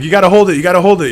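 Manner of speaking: high, loud hold it; mock-frantic dad; urgent pleading. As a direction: urge her to hold it, half panicked. Dad urging daughter.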